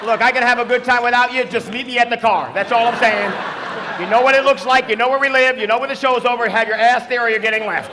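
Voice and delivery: loud, exasperated ultimatum, played for laughs; mock spousal telling-off. Long-married spouse sitting five chairs away, mock loud scolding. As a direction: lay down the law to a spouse, hammed up.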